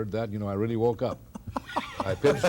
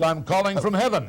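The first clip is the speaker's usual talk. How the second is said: pitched up, laughing as he says it; laughing punchline; 8 semitones higher than usual. Retold or imitated. Announcer tells the caller he's in heaven, laughing. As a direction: deliver the joke while giggling.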